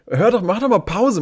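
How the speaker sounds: half-joking desperation; exasperated plea. Retold or imitated. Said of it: "Ich war so, Alter".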